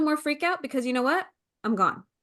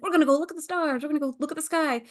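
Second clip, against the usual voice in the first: excited dad; 4 semitones higher, much faster than usual. Retold or imitated. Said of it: "he's like".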